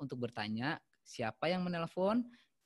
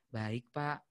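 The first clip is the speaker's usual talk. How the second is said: empathetic reply; 5 semitones lower than usual. Shown as a demonstration. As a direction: console an upset caller gently.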